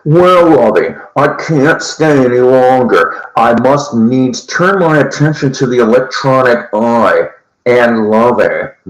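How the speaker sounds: a hint of a snooty old millionaire, lightly voiced; Thurston Howell. Host to his listeners, lightly mimicking the rich castaway. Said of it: "As Thurston Howell might say".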